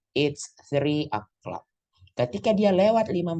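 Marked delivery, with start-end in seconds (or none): 0.1-1.6 "it's three o'clock" drawn out slowly and evenly; slow model sentence. Shown as a demonstration. Teacher modeling the full sentence for students, slow. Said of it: "kita ambil contoh".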